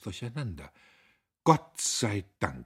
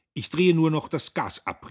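laut und hoch hinterhergerufen; nachgerufen; 9 semitones higher, 11 dB louder than usual. A narrator's reading. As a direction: ihr über die Distanz nachrufen. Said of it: "rief er ihr nach". (lauter Ruf hinter ihr her)

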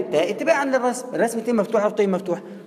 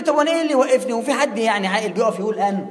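student objecting. Retold or imitated. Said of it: "هتقول لي".

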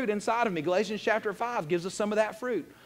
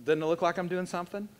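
mock show-off. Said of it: "and go".

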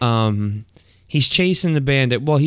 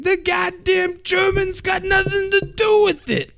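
high mock sheriff voice, confused; Buford T. Justice. Sheriff mishearing germane, high blustering imitation. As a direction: bluster like a dim Southern sheriff. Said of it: "And he's like".

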